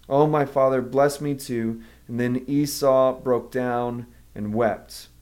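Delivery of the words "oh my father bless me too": quiet pleading. Acted. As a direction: beg quietly, almost giving up. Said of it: "Esau pleaded".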